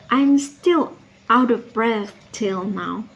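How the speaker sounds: slow, deliberate stress on "still"; emphatic. Acted. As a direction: lean on "still" and draw the line out. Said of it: "Dia tekankan sampai dua kali ya".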